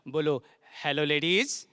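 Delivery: sweetly. Shown as a demonstration. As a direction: say it lovingly. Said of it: "प्यार से बोलो".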